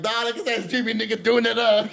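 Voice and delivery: high-pitched excited retelling; acted amazement. Telling the guest how he spotted him on the road, excited.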